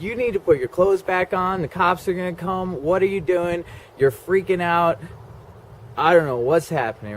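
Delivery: panicked friend. Retold or imitated. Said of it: "he's like".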